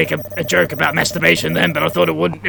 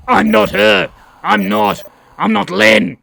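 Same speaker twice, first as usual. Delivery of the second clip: insistent protest; 3 semitones higher than usual. Acted. Character protests mistaken identity.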